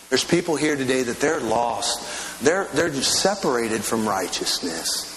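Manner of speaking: fervent pastor's prayer, pleading; earnest prayer. Real, not acted. Pastor praying over the church for lost people to be saved. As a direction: pray for the lost with urgency.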